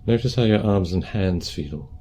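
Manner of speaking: calm, unhurried meditation guidance; guided meditation. Acted. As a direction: guide them gently through posture and breath, leaving space.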